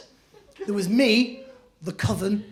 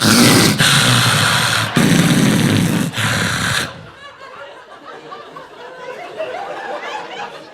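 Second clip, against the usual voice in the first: high, loud witch cackle; evil cackle; 5 dB louder than usual. Retold or imitated. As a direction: cackle like a possessed teenage witch. Sister's demonic cackle.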